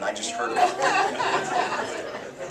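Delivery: laughing. Real, not acted. Laughing aside.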